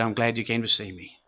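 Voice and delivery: weak sickbed voice. Retold or imitated. Retold dying man greets pastor.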